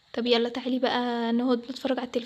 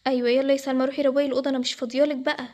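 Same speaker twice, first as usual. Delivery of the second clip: louder, impatient command; stern order; 4 dB louder than usual. Acted. Mother sending Salma to clean the room, stern. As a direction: order her off with raised voice.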